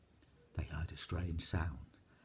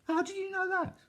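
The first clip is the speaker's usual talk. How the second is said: much higher, wondering giantess voice; a giantess astonished they know; amazed giantess. A narrator's reading.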